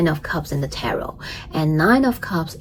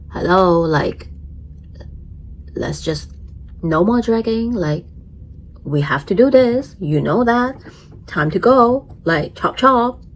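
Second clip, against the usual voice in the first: a hint of a pushy moon hurrying someone along; the moon speaking. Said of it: "It's like".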